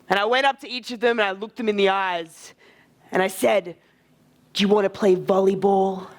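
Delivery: low, deliberate storytelling in character; Tyrion. Shown as a demonstration. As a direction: keep it grave and measured. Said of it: "Keep the Tyrion voice".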